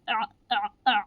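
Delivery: आ voiced from the middle of the throat, the Arabic ain; आ as throaty ain. Shown as a demonstration. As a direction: squeeze आ from mid-throat like ain. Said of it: "इस तरीके की आवाज़ आनी चाहिए".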